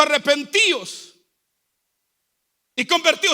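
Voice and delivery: projected, emphatic sermon delivery; preaching. Real, not acted. Preacher urging the church to hate poverty, emphatic preaching. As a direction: preach it out to the congregation.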